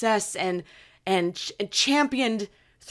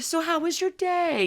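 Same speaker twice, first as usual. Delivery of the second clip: droid voice; 9 semitones higher than usual. Retold or imitated. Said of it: "she would ask you".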